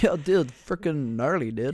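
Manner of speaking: slow, dragged stoner skater dude; extreme hyped kids ad. Pretend. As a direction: play a gnarly skater bro. Mocking hyped skater kid lingo.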